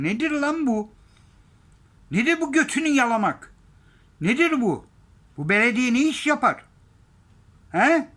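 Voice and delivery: high, loud, outraged yelling; furious shouting. Real, not acted. Vlogger ranting to his viewers, furious shout. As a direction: blast the outrage at full volume. Furious rant about city signage.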